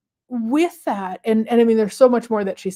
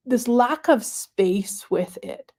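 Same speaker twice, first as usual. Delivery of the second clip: whispered; 2 semitones higher, slower than usual. Real, not acted. Reflective confession.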